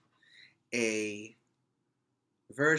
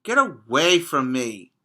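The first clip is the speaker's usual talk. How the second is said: 1 mild mock shout; 8 dB louder than usual. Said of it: "cried the Rainbow Fish".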